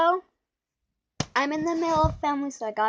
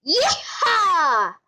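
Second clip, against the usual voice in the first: dad's yeehaw; 3 semitones higher, 3 dB louder than usual. Retold or imitated. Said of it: "So he sounds like this".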